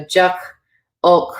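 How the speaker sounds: "juk, ulk" with a short uh vowel; unstressed short O. Shown as a demonstration. Teacher's examples of O without fada, short uh. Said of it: "an O without a lot of stress".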